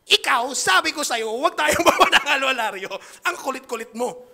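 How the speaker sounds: loud shout broken by laughter; laughing shout. Retold or imitated. Yelling at his friend on the tricycle, laughing. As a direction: yell at the friend half laughing. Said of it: "Sigaw ako na sigaw sa".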